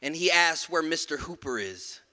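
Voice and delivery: measured, rhythmic spoken word delivery; poem performance. Acted. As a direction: land each line like a commandment.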